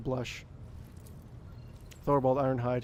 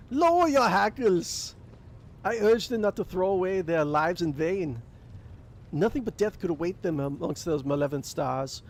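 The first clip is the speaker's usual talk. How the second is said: menacing warrior; 5 semitones higher than usual. Acted. Ulfar to Thorvald, menacing bellow. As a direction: growl it as a warning. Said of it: "voice drops to a menacing rasp".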